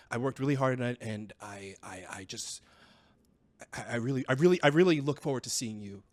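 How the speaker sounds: halting, stumbling plea with trailing pauses; falter, restart, then push the words out; hesitant disappointment. Acted. Son confessing to dad on the phone, hesitant disappointment.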